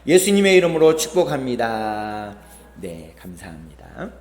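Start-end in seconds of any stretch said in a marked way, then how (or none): 0.0-2.4 blessing greeting. Shown as a demonstration. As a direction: bless the person beside you warmly. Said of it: "시작".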